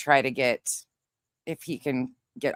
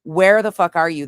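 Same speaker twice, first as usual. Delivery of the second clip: louder, urgent mock yell; retold yell; 7 dB louder than usual. Woman yelling to partner near an elk, retold yell. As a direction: half-shout it down the phone. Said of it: "and I yelled".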